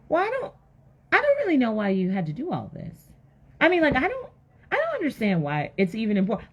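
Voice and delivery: halting, high-starting wifely complaint; hesitate, then question him, baffled; acted bewilderment. Wife questioning Noah's big project, halting bewilderment.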